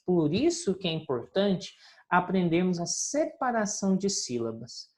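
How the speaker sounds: ordinary delivery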